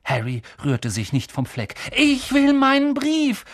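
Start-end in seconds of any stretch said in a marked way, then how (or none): 2.0-3.5 high, loud, drawn-out demand; shouted demand. A narrator's reading. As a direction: yell stubbornly for what is yours. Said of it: "rief er".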